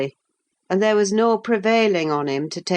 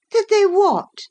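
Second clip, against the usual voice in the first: higher, sharp startled question; startled cry; 3 dB louder than usual. Acted. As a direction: jump on his unfinished words. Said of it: "cried Catherine".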